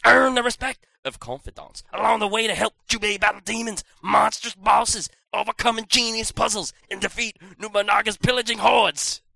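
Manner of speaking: dramatic trailer voice read; trailer narration. Acted. Reading box blurb trailer style.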